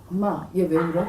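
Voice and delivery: put-on puzzled older brother. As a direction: lightly voice the big brother, baffled. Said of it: "근데 오빠가 바꿨어".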